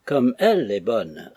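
slow, with « elle » leaned on; stress on elle. A narrator's reading. Maggie repeating slowly, pushing the word « elle ». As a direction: Maggie echoes, stressing « elle » toward her little mother. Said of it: "renvoyant d'une façon très expressive le pronom souligné".

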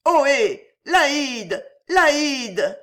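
high, loud hail up a stairwell; insistent, high-pitched calls; calling out. A narrator's reading. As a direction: holler the name for help. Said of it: "les appels cessèrent".

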